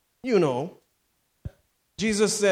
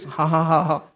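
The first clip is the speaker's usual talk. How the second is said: demonstrated string of ha-ha-has; mock loud talking laugh; 3 semitones lower than usual. Shown as a demonstration. Preacher showing how they talk in the car, mock laughing. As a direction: put on a laugh to show how you talk. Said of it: "No, I talk like this".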